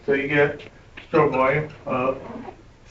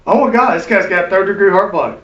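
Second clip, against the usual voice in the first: alarmed exclamation; 4 semitones higher, 4 dB louder than usual. Retold or imitated. Nurse finds the heart block.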